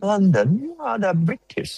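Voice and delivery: hammed-up New Yorker accent; put-on American accent. Shown as a demonstration. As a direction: show off an American accent in English. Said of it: "เราก็เป็นแบบนิวยอร์กเกอร์ accent".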